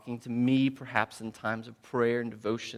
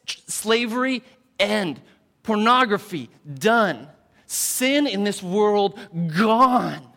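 high, loud booming command; God's commanding voice; 7 semitones higher, 8 dB louder than usual. Retold or imitated. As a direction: thunder it out like a final decree. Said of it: "One day God will come and say".

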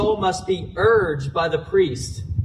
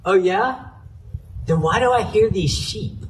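higher, doubting mock question; sarcastic "oh, yeah?" tone; 4 semitones higher than usual. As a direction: challenge him with dry sarcasm. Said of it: "kind of sarcastically says".

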